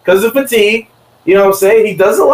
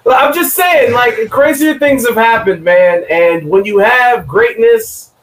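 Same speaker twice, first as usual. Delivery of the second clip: laid-back surfer drawl, raised pitch; a hint of a chill beach stoner; surfer stoner dude; 4 semitones higher than usual. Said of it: "I don't know why I sound like a, a surfer stoner dude".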